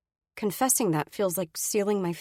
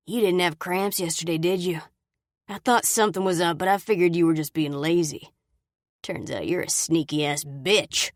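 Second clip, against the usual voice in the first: a touch of a menacing man, louder, slowing to a sneer; threatening accusation; 3 dB louder than usual. Acted. Brady accusing, closing in.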